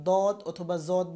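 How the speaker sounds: দদ and জদ with plain d and z onsets; wrong substitutes. Shown as a demonstration. Teacher quoting common mistakes, plain d and z. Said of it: "তাহলে কিন্তু উচ্চারণ হবে না".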